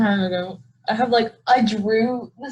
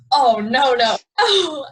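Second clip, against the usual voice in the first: panicked no; 6 dB louder, slower than usual. Retold or imitated. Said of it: "and I'm like".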